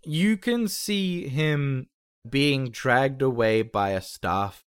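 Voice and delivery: slow, deliberate scene narration; game master's scene setting. Acted. Game master shows what the window reveals, slow narration. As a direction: describe the sight slowly for the players.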